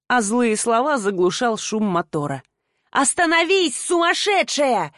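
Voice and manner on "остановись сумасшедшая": drawn-out high shout after the car; shout after her. A narrator's reading. Man left behind, shouting slowly after the car. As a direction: yell after her as she drives off. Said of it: "кричал он вслед".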